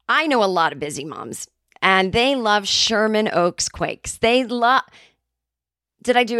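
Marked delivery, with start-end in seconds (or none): 0.1-4.8 ad read. Shown as a demonstration. Pitching oats to busy moms, slow sincere read. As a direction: sell it slowly and sincerely. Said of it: "take it again".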